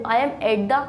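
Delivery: each word slow and separate, dictating to a class; slow teacher dictation; slow model sentence. Shown as a demonstration. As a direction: spell it out slowly like a teacher. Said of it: "मैंने कहा मैं घर पर हूँ".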